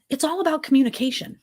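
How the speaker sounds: sudden breathy whisper for emphasis. Real, not acted. Host whispering her key point to co-host, hushed whisper. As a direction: drop it to a whisper to drive the point home.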